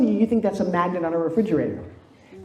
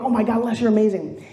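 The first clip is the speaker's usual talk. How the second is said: mock-tearful admiration, pitched up; gushing praise; 3 semitones higher than usual. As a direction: imitate an overwhelmed, admiring crowd. Retelling a sobbing, gushing crowd.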